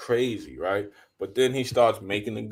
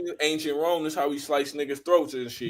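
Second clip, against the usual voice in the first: lightly mocking New York street talk; casual put-on New Yorker; Brooklyn accent; 4 semitones higher, faster than usual. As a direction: imitate a Brooklyn tough guy. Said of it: "talking like he was from Brooklyn".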